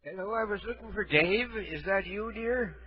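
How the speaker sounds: soft, lightly voiced old man; a hint of a feeble old caller; frail shaky old whisper. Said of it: "Well, I'm old".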